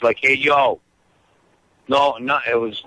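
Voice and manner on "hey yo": quick New York accent "Hey, yo". Shown as a demonstration. Guest showing the New York accent he never heard, light New York accent. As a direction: toss off a light New York street greeting. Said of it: "talking like this".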